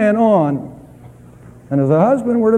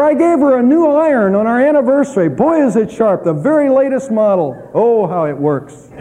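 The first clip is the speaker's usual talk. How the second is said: mock proud husband; 4 semitones higher than usual. Husband boasting gift, mock.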